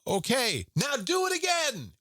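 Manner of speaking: high shouted command; sergeant's shouted order. Retold or imitated. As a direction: yell the order like a drill instructor. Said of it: "He said".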